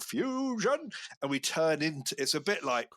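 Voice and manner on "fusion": shout. Retold or imitated. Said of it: "we shout".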